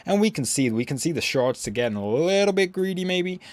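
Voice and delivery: mock American trader's commentary accent; terrible American accent. Shown as a demonstration. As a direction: put on a clumsy American accent while calling the chart. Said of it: "that was terrible".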